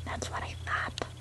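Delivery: hushed smug aside; quiet gloating whisper. Acted. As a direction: whisper it smugly.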